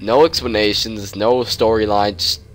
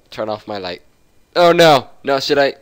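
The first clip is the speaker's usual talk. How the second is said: panicked yelp; 3 semitones higher, 6 dB louder than usual. Real, not acted. Panics about turning light off.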